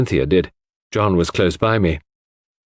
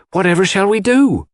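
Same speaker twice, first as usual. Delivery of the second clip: distressed wail; 11 semitones higher, 4 dB louder than usual. A narrator's reading. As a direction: wail for the poor mistress. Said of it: "cried Dorcas, wringing her hands".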